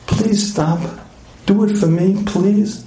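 lightly imitated pleading wife. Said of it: "She said to me".

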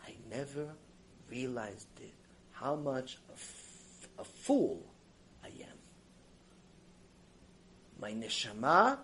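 hushed, broken admission through tears; crying confession. Retold or imitated. Rich man realizing his foolishness, softly weeping. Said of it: "starts hysterical crying".

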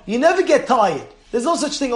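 ordinary delivery

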